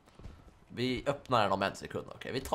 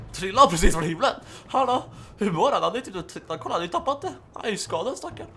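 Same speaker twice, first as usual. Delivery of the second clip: laughing; 7 semitones higher, 6 dB louder than usual. Real, not acted. Laughing at fallen mutant.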